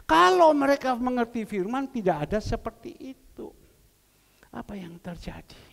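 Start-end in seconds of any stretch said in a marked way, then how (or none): 4.5-5.6 hushed, breathy rhetorical question; whisper. Acted. Preacher asking the church again, whispered. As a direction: drop to a whisper to draw them in.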